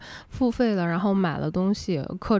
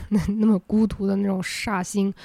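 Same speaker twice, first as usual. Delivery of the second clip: cracked voice breaking mid-phrase; voice cracking. Real, not acted. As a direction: voice cracking as it rises. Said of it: "我今天怎么嗓子早劈叉".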